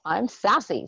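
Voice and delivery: sassy line through a laugh; cheeky laughing affirmation. Shown as a demonstration. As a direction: giggle it out with a hip wiggle. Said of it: "give your hips a little".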